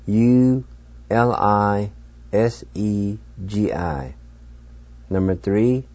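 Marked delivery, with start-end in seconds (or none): 0.1-4.1 spelled out. Shown as a demonstration. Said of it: "and it's spelled U".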